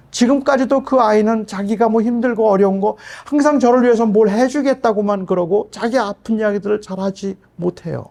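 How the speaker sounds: ordinary talk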